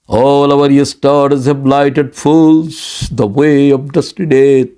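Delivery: very slow, drawn-out Shakespeare recital; dramatic recitation. Acted. Preacher quoting Macbeth to his congregation, slow and theatrical. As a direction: savour each word like a stage soliloquy.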